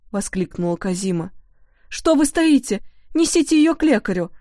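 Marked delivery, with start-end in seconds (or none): 1.9-4.3 high, loud commanding yell; the cook shouts at the maids to carry her; scolding shout. A narrator's reading. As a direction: bark orders at the servants. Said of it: "напустилась она на работниц".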